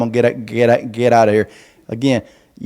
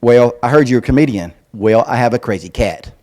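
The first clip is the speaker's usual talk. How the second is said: put-on sassy southern girl; 3 semitones lower than usual. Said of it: "southern little sassy girl".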